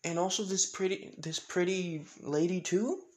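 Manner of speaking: put-on high, softish child voice; acted curious little kid; Eri. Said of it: "With Eri saying".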